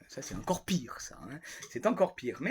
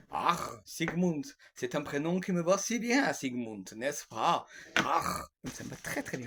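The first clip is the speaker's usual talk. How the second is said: put-on playful Germanic-style Sigmund accent; jovial put-on Sigmund accent. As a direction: savour the put-on accent, drawing out the exclamation. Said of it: "j'adore cet accent". (accent à la Sigmund, jovial)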